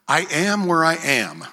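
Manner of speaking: slow, calm God voice; calm reassurance. Retold or imitated. Preacher voicing Jesus calming the worried follower. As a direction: let it land, slow and steady. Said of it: "He's like".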